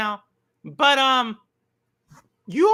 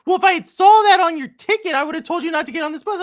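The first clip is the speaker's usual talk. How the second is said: retold upset driver; 4 semitones higher, 7 dB louder, faster than usual. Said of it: "really upset with me".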